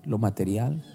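low, slow and solemn; the Holy Spirit speaking solemnly; voice of God. Retold or imitated. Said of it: "el Espíritu Santo me habló tan fuerte".

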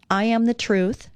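calm devotional read-aloud. Acted. Reads Jesus's words from devotional.

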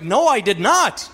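emphatic mock-defensive retort; insistent, acted self-defence; indignant denial. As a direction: correct her with retold indignation. Retelling his argument with wife.

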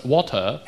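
"water" carefully said with a plain AW vowel; corrected accent. Shown as a demonstration. East Coast comic working on their accent, carefully pronouncing "water". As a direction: say "water" over-carefully, as if practising. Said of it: "People make fun of my accent all the time. I'm, I'm working on it".

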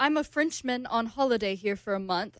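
put-on lightly French-accented reading of a text. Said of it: "I'm doing that accent".

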